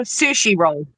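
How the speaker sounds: "sushi roll" said cleanly; sushi said right, clearly. Real, not acted. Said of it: "You couldn't say sushi?".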